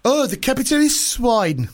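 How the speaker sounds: high, slow comic villain; hammed-up comedy dictator, drawn out; Putin. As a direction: play a badly faked world leader, high and slow. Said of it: "I'll be Putin then".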